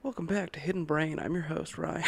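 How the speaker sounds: understated public-radio intro parody; mock NPR host. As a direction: lightly imitate a measured radio host. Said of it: "talking like this is N P R".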